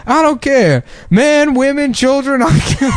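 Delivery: hammy Steve Harvey soldier; Steve Harvey impression. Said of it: "he's like".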